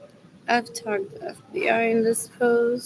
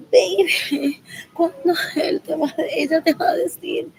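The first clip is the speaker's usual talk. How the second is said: whiny mock girlfriend; 5 semitones higher than usual. Whiny quote acted out.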